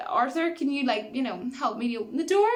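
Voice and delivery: mock-nervous, halting question; acted timid request. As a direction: ask awkwardly for help, imitating a nervous friend. Friend timidly asks killer for help.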